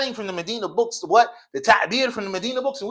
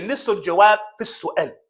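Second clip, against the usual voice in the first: proverb rattled off fast; much faster than usual. Shown as a demonstration. Teacher rattling off a proverb fast to the class. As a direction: run the Arabic saying together quickly. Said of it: "for as we say".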